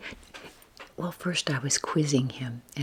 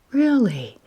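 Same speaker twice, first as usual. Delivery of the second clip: a raised, incredulous mock reaction within a whisper; surprised grandson; 9 semitones higher, 10 dB louder than usual. Grandson hears about grandma's channel, surprised. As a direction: imitate a surprised teen, higher and louder.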